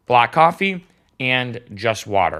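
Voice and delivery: slow, with black coffee pressed hard; stressing black coffee. Shown as a demonstration. Telling fasting viewers to drink only black coffee, slow and emphatic. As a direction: lean on "black coffee", each word weighted. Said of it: "I stress the word black coffee".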